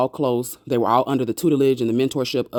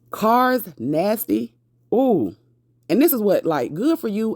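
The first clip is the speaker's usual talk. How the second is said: gleeful delight; 7 semitones higher, slower than usual. Real, not acted. Vlogger reacting with glee.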